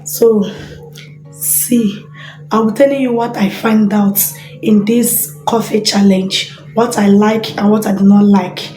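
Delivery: husky voice from a cold; hoarse cold voice. Real, not acted. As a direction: talk through a sore throat. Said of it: "I have cold".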